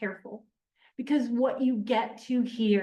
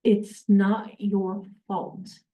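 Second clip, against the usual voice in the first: tender reassurance; slower than usual. Acted. Quoting Nate's forgiving line.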